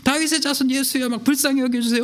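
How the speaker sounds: high desperate plea; crying out. Retold or imitated. Blind men shouting to Jesus for mercy, high plea. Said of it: "울룰룰룰 막 하면서 시선을 끌었다는".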